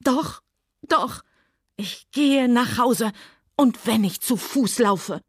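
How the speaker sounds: high, slow hysterical scream. Acted. Scarlett screaming at Rhett while beating his chest. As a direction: scream it through tears. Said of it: "und schrie".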